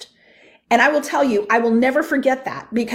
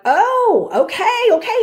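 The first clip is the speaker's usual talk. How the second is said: laughing surrender; 10 semitones higher, slower than usual. Retold or imitated. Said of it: "And I was like".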